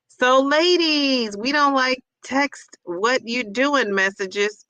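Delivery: slow reading. Shown as a demonstration. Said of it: "So wait".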